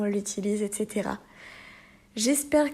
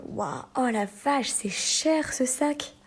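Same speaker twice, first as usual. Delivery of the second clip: surprised; 3 semitones higher, slower than usual. Shown as a demonstration. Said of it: "quelque chose qui nous surprend".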